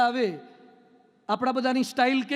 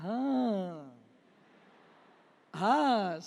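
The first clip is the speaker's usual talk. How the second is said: soft, lower sigh of relief; 5 semitones lower, 4 dB quieter, much slower than usual. Shown as a demonstration. Returning home after a long trip, sighing with relief. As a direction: let the breath out as you reach home. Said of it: "ઘરમાં enter થતા કયો શબ્દ બોલો?".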